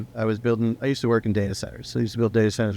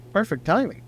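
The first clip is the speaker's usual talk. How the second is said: much higher, delighted exclamation; a hammed-up burst of delight; retold excitement; 9 semitones higher than usual. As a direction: sell how lucky the timing felt. Excited at lucky coincidence.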